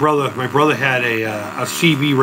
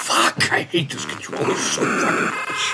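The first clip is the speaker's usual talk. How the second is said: whispered frustration; 2 semitones lower, 5 dB quieter than usual. Real, not acted. Frustrated under breath.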